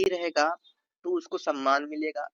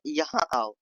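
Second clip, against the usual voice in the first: commanding; slower than usual. Shown as a demonstration. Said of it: "आदेश के लह".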